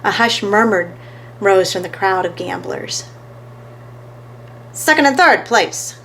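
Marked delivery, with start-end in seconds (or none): 4.7-5.9 excited. A narrator's reading. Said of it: "said Downtown Fats".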